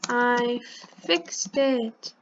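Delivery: spelled out slowly while typing; slow dictation. Shown as a demonstration. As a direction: say it word by word, slowly.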